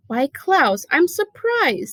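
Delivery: mock surprise. Stefano mocking Klaus.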